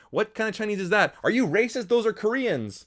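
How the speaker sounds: high-pitched parody of scandalized bickering; mock indignation. Reviewer acting out family jokes from the film, mock indignant. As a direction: imitate an affronted squabble.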